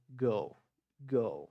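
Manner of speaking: put-on GIRL with no R, light L; British, silent R. Shown as a demonstration. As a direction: say GIRL swallowing the R. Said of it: "Eu como esse R". (GIRL sem R, à britânica)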